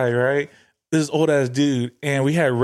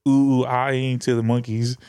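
monkey calls, low key; 4 semitones lower than usual. Retold or imitated. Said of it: "we was like".

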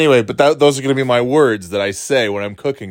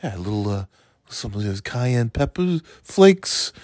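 real calm; 4 dB quieter than usual. Shown as a demonstration. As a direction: lull them gently before the pop. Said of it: "I'll say it real calm".

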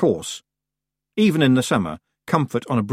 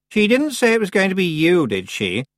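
higher and louder, sharp demand; 10 semitones higher, 4 dB louder than usual. A narrator's reading. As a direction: cut in like an accusation. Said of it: "said Anagrama sharply".

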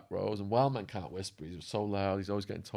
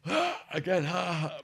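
high, voice-cracking "ha ha"; failing voice on a put-on cackle; imitated pirate cackle; 8 semitones higher, slower than usual. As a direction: mimic a mate's mock pirate "ah-ha". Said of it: "My voice is going, but it's like".

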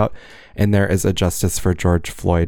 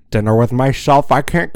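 Grinch impression; 3 semitones higher than usual. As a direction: fuss over a lonely dinner like the Grinch. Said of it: "he goes, he goes".

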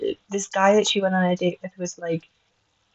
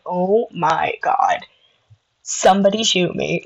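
mock despair whisper; slower than usual. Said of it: "it was so bad".

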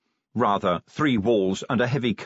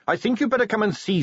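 put-on higher eager young Carrot voice; 11 semitones higher, faster than usual.

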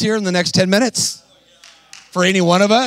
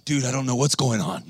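bewildered guy; 7 semitones lower, 4 dB quieter than usual. Retold or imitated. Voicing bewildered struggling guy watching.

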